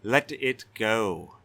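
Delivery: a proud castellan threatening a brigand; stern Castellan. Acted. Castellan threatening the white-haired stranger, blustering.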